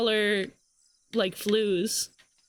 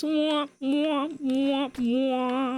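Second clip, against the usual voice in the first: womp womp sound effect; 3 semitones higher, much slower than usual. Retold or imitated. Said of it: "it plays".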